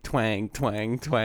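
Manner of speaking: spoken sound effect of plucked floss; imitated twang. Friend retelling the cat video, imitated twang. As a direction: mimic the twang in an even rhythm. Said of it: "So it'd be like".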